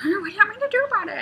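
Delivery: high, loud, rapid squawk; fast falsetto bird retort; imitated husband finch. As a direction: rattle it off like an exasperated little bird. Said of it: "And he's like".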